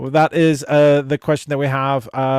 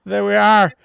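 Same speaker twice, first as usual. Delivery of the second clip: excited; 7 semitones higher than usual. Real, not acted. Excited greeting of chat guest.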